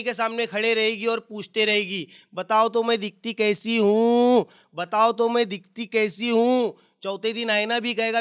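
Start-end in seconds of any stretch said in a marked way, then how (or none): 2.3-6.8 slow, drawn-out pleading ask; coy girl asking. Retold or imitated. Girl keeps asking a man how she looks, slow and coy. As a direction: whine it like a vain girl.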